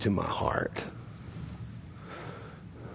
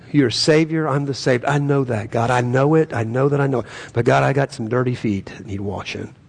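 humble prayer. Shown as a demonstration. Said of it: "You pray with a humble heart".

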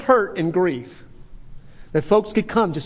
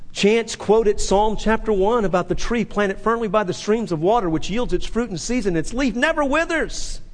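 building to a shout; 4 semitones higher than usual. Real, not acted. Building to preaching climax.

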